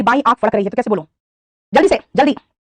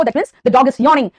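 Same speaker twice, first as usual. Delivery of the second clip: slow model sentence; much slower than usual. Shown as a demonstration. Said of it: "ठीक है बेटा".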